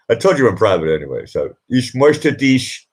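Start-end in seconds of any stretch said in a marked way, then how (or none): 1.7-2.9 slow teasing quote. Retold or imitated. Retelling her flirty German line.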